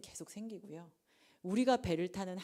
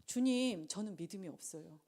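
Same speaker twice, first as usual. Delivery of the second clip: humble confession. Acted. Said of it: "똘똘한 학생은 어떻게 해야 될까요". (주님께 나직이 털어놓는 겸손한 고백)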